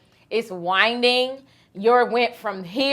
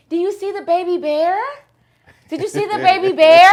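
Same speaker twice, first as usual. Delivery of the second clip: higher, eager mock-excited question; excited hikers; 8 semitones higher, 6 dB louder than usual. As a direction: imitate giddy strangers. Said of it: "people running into us talking about something".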